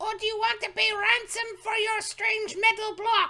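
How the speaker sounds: put-on goblin voice, echoing as in a cave. Voicing a goblin demanding ransom for an old man: goblin voice echoing through a cave. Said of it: "in common, uh, a voice echoing through there".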